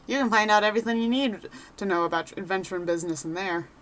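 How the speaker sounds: a lightly voiced cheerful rogue adventurer; chatty wanderer sizing up a newcomer; folksy adventurer. Reads NPC adventurer lines.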